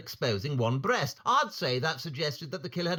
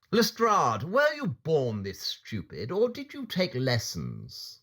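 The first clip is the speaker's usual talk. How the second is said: cutting sarcasm; slower than usual. Acted. Holmes insulting Lestrade.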